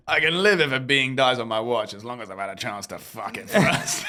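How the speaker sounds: mock quote. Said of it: "I thought you were gonna say".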